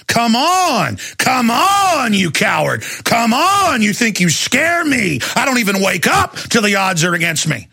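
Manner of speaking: rising, shouted taunt with a tearful edge; retold angry challenge. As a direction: goad the cowards into a fight. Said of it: "and I said".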